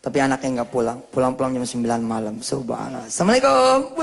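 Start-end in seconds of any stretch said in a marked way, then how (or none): 3.0-4.0 put-on child calling out. Child arriving home calling out.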